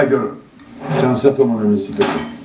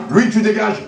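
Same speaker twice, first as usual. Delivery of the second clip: firm raised order; 9 semitones higher than usual. Real, not acted. Throwing the guest out.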